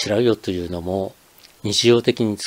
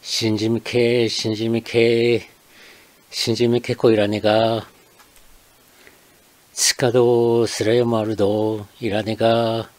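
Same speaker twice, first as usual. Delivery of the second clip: lightly imitated shellfish seller's call in Akita dialect; street vendor's cry. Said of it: "地声で次のように繰り返し叫びながら売り歩いていました".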